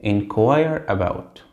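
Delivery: inquire about, each word drawn out slowly; slow stressed inquire about. Shown as a demonstration. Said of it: "مشهور معاها حرف الجر about".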